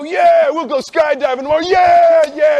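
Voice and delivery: high, loud, pumped-up yelling; drunken hype. Retold or imitated. A friend hyping the skydiving plan at the bar, loud and pumped. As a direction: whip the whole bar into it. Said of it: "And you go".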